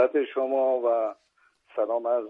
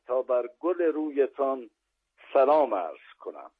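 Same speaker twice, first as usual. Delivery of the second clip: poem recitation; 3 dB louder than usual. Acted.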